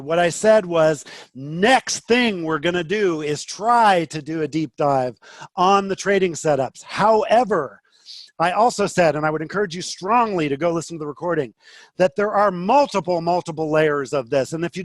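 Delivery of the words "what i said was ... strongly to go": firm, louder, exasperated insistence; pressing the point, louder; frustrated. Real, not acted. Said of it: "and now I'm getting frustrated".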